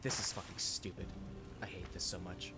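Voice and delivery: defeated. Real, not acted. Gamer despairing after failed jump.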